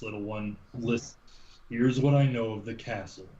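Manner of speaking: lightly acted older man, measured and unhurried; lightly voiced grave storyteller. Man telling a little one of a castle legend, measured storytelling. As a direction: recount an old legend with long, weighty pauses. Game master plays Carrick.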